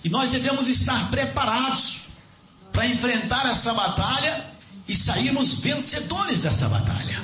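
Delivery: high-pitched, fervent sermon delivery; impassioned preaching. Real, not acted. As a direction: preach it urgently to the congregation.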